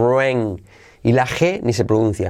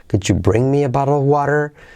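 strong stress on bring and water; 3 semitones higher than usual. Showing English intonation to Spanish speakers, stress on bring and water. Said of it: "¿Qué estoy acentuando aquí? Bring, que es muy importante, y water".

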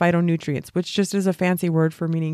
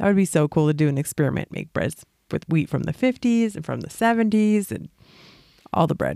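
talking through a grin, audible smile in voice. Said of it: "Do you hear the smile in her voice?".

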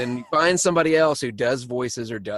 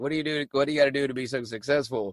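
sarcastic, mocking tone, quieter; 3 dB quieter than usual. The speaker re-enacts what they said to him as a joke: retelling sarcastic mockery. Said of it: "I was being sarcastic and making fun of him".

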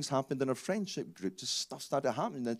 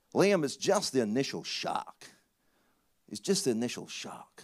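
put-on clumsy, not-very-good Texas accent; 4 dB louder than usual. Retelling what a man from Texas told the speaker at eight: bad Texas accent. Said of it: "I know it's not a very good accent".

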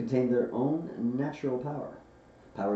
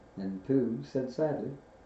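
usual speaking voice

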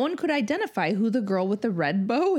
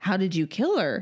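totally creeped-out, unnerved, disturbed. Reading a story aloud, retelling own question: imitating a creeped out voice. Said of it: "in a totally creeped out voice".

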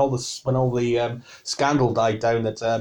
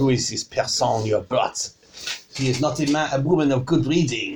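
outrageous, over-the-top put-on French accent. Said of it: "like my accent".

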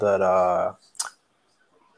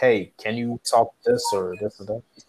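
normal talking voice

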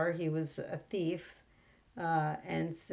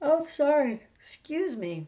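very high, loud words stretched through a yawn; 9 semitones higher, 7 dB louder than usual. Apologizing to listeners mid-talk, yawning. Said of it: "I got overwhelmed with a yawn".

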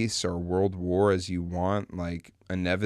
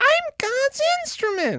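very high, loud voice with swooping pitch; 6 dB louder than usual. Discussing a weird movie, quoting a character from it: high-pitched Simon Birch voice. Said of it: "he had the most high-pitched voice".

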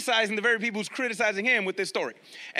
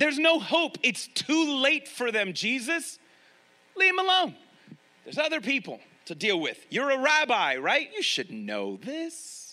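mock sarcastic scoffing, mocking tone; 4 semitones higher than usual. Acting out critics talking down to Jesus: imitating mocking criticism. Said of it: "So they're mocking Jesus".

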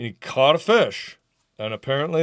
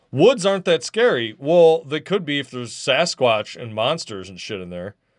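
ordinary delivery

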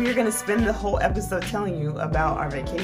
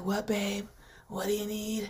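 put-on edgy, sultry, phlegmy voice, much quieter; 4 semitones higher, 9 dB quieter than usual. Recalling how she used to answer in her sexy phlegm voice. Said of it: "I felt so cool with my little edgy voice".

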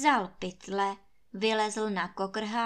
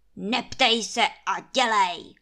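loud, growled, dismissive voice; 7 dB louder than usual. Trautenberg answers Kuba's question while ordering his servants, growling. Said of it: "zavrčel Trautenberg".

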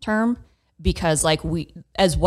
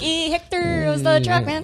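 very high, slow, poor, fake Mexican accent; 12 semitones higher than usual. Showing a little put-on mexican accent after being asked to hear it. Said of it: "I get a little accent going".

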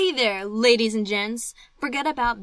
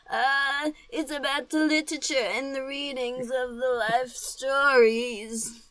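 put-on elderly British witch voice; 4 semitones higher than usual. Co-host asks what the show is about; speaker answers as an old british witch. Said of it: "like a wi- an old British witch".

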